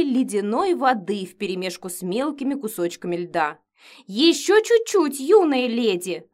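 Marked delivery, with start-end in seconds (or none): 4.1-6.3 louder, slow higher cajoling; slow coaxing cook voice; coaxing matron. A narrator's reading. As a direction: coax her like a child. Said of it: "уговаривала меня главная мучительница".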